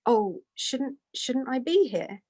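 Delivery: mildly apologetic retold question, drawn out at the end; almost apologetic. Guru asking if he should be here, almost apologetic. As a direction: imitate a gently apologetic host. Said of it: "almost apologetically turned to say".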